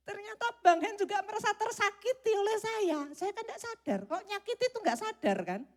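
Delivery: amused preacher laughing at herself; laughing while telling. Real, not acted. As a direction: laugh through the realisation. Laughing at own story.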